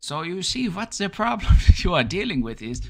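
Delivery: put-on high, loud, heavy German accent. Imitating a psychologist who talked at people about their problems: Fritz Perls impression in German accent. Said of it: "this interesting German accent".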